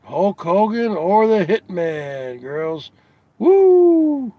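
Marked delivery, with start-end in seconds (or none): 3.4-4.3 loud, high-pitched "woo"; high whoop. Real, not acted. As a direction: let out one long high whoop. Whoops after his question.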